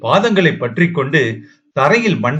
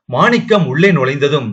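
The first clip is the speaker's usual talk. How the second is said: ordinary delivery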